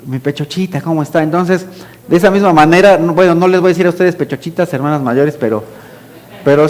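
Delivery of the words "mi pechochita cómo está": soft, tender greeting to mother; gentle pet-name sweet talk; affectionate. Shown as a demonstration. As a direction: greet your mother dotingly. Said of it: "Yo así le digo a mi mamá".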